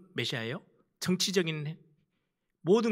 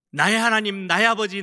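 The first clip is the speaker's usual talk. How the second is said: anguished cry; 5 semitones higher, 7 dB louder than usual. Retold or imitated. Jesus cries out to Father.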